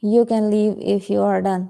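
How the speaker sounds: drawn-out, careful phrasing; slow model reading. Shown as a demonstration. Teacher models the sentence slowly for the class. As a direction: say each word slowly to be copied. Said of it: "teacher models the sentence".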